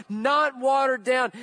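not watered down, shouted with force; shouted emphasis. Real, not acted. Preacher warning the church, shouted. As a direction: hammer the repeat home. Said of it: "repeated with a shout".

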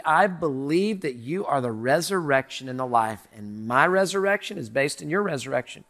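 earnest prayer at heaven's gate; humble confession. Retold or imitated. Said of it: "It's gonna be".

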